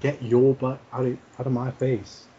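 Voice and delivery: slow, half-hearted catchphrase without a real yell; just say it, lamely and slowly; pathetic attempt. Shown as a demonstration. Joe retrying the catchphrase for his friends, pathetic delivery. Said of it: "That was pathetic".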